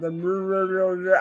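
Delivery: mumbled gibberish imitating slurred talk; slurred nonsense mumble; mock mush-mouth. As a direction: mimic a mush-mouthed drawl with garbled noises. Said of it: "The mush mouth".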